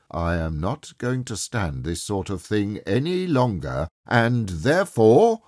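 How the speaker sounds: threaten, swelling towards a big reveal; mock threat. Mock threat building before surprise raise.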